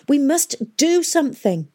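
high, slow, insistent demand; angry. A narrator's reading. Catherine presses the timid historians to act, angrily. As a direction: demand action with indignation. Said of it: "said Catherine angrily".

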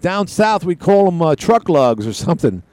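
slow, high southern drawl; southern accent. Retold or imitated. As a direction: imitate a southern commercial pitchman's drawl. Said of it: "he's got a southern accent".

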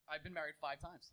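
lightly voiced driver, low and matter-of-fact; quoted Uber driver. Retelling an Uber driver's confession, low and understated. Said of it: "and he was like".

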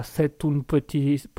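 slow, botched Italian accent; English accent slipping slowly into Italian; accidental Italian accent. Shown as a demonstration. Host fumbling his accents for listeners, shaky attempt at Italian accent. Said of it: "l'accent anglais qui vient de se transformer en accent italien".

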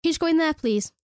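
mock the patronising "hun"; imitating condescending colleague. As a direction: mimic a coworker's sweet bossiness. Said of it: "it's the way she says hun".

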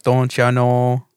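put-on slow drawn-out Wisconsin accent; a light Wisconsin "Don't ya know?". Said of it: "that Wisconsin accent".

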